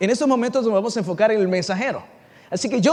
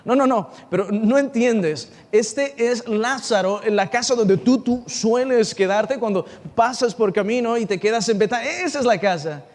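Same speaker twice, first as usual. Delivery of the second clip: insistent protest. Acted. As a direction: press each point in disbelief. Acted messenger protesting to Jesus.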